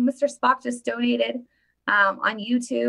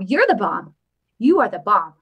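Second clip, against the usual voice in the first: louder, punchier "You are the bomb"; emphatic praise; 6 dB louder than usual. Shown as a demonstration. Vlogger praising a donor in chat, louder and emphatic. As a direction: stress each word of praise.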